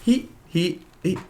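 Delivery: high loud laughing exclamation through tears; laughing shout. Retold or imitated. Telling friends about his breakthrough, laughing shout. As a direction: burst out laughing that he is real. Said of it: "I'm like".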